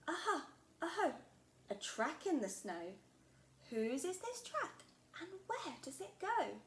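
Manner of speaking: a small explorer shouting her discovery; excited Gruffalo child. Acted. Child finds a track.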